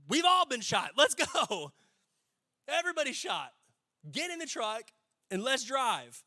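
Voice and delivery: high, loud battlefield command, easing in volume; rally the troops, acted out; mock officer yelling under fire; shouted captain's order. Captain urging wounded soldier under fire.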